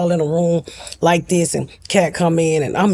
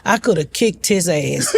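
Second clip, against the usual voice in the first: laughing. Real, not acted. Joking about the insurance money.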